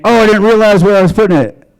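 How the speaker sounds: high-pitched feigned innocence; mock excuse. Imagined man excusing himself to a woman, high mock-innocent voice. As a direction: plead ignorance in a put-on high voice. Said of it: "because the argument".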